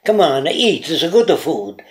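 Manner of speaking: lightly imitated Italian accent. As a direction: put on a mild Italian accent. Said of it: "people raised in Italy speak".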